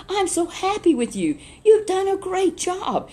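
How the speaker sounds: beam at the servant who did well; joyful praise. Acted. Master praising the faithful servant.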